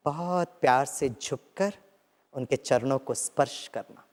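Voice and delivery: guided meditation. Acted. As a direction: lead them gently into the memory. Leads a guided visualization. (नरम ध्यान-निर्देशन की आवाज़)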